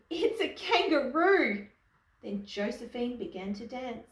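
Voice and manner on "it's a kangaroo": high, loud storybook cry; lightly acted amused surprise; mock giggly exclamation. A narrator's reading. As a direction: exclaim like a tickled audience member. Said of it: "Someone in the audience giggled".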